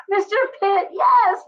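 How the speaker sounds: high, loud, drawn-out Mister Pitt; Seinfeld impression. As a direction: belt out the name like the sitcom. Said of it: "that was it from Seinfeld".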